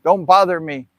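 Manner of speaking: mild annoyed brush-off. Retold or imitated. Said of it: "very upset".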